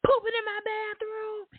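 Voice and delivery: put-on very high kid voice, aggrieved; ranting son. Son complaining about a boy at his house, high aggrieved rant. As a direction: imitate an outraged boy, pitch way up. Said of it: "And he was like".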